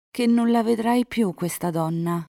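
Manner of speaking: high-pitched, pressing demand; insistent heroine. A narrator's reading. Elisa making Enrico give up the woman, high insistence. Girl demands an oath from lover.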